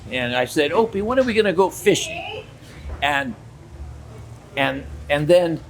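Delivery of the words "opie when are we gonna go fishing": teasing call. Retold or imitated. Teasing the boy loudly.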